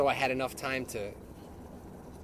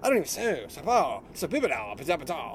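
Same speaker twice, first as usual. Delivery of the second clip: Charlie Brown's teacher babble. Retold or imitated. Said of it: "like Charlie Brown's teacher".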